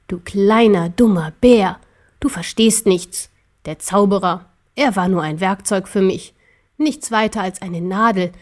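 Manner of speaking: lightly voiced cold, contemptuous ruler; scornful emperor.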